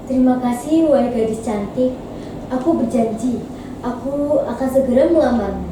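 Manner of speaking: measured, lightly voiced noble man; wise young man. Freed prince promising marriage to Bawang Putih, lightly voiced wise man. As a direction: speak with calm, considered dignity. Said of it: "ucap pria tersebut dengan bijaksana".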